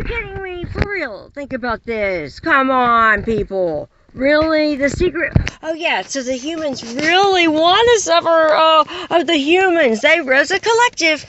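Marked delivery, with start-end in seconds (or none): 5.6-11.2 mock-agreeing, dry sarcastic tone; lightly sarcastic aside; sarcasm. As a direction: pretend to agree while mocking. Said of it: "That was called sarcasm".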